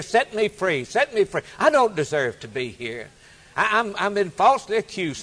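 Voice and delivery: a lightly voiced chorus of inmates pleading to be freed; pleading prisoners. Prisoners protesting innocence to king.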